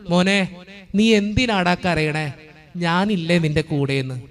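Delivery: slow, tender question to a crying son; Mother Mary's gentle voice. Retold or imitated. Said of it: "ഒറ്റ ചോദ്യമുള്ളൂ". (പതിയെ, സ്നേഹത്തോടെ ആശ്വസിപ്പിക്കുന്ന സ്വരം)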